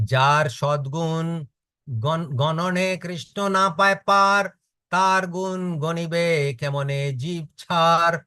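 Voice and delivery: quick, sing-song scripture recitation; verse recitation. Acted. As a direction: rattle off the Bengali verse like a chant.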